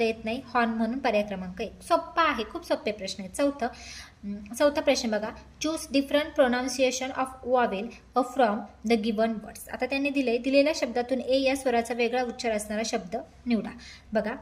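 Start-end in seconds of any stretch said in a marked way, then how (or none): 5.6-9.7 each English word spaced out very slowly; slow dictation reading. Shown as a demonstration. Teacher reading the question to students, very slowly.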